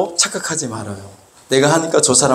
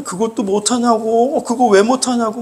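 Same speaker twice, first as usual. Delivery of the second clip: acted anger; 6 semitones higher than usual. Preacher mimics scolding someone who cannot keep up, acted anger. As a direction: scold with a stretched, raised ending. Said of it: "막 화를 내".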